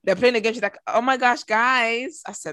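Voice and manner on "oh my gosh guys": mock American accent, slightly lifted; imitated American accent. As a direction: imitate her badly faked American accent. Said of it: "she does it again tonight".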